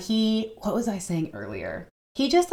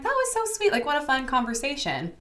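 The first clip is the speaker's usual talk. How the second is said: gushing; 9 semitones higher than usual. Retold or imitated. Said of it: "I remember leaving and being like".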